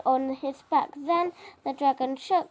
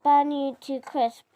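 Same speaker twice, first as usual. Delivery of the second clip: louder dragon roar, burn you to crisp; dragon bellowing; 5 dB louder than usual. Acted. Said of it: "bellowed the dragon".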